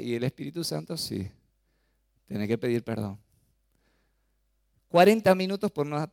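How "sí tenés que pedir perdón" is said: quiet firm correction. Acted. Holy Spirit's firm quiet voice.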